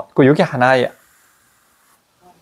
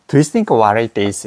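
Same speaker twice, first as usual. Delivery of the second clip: slow demo; 2 semitones lower, much slower than usual. Shown as a demonstration. Teacher reading the sentence very slowly to a student. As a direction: Do you think what it is? said very slowly, word by word. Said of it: "이러잖아요".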